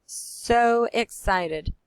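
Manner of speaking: "so excited" drawn out slow. Shown as a demonstration. Teacher showing what an exclamation point sounds like, excited. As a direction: stretch it out with delight. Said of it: "exclamation point means I'm".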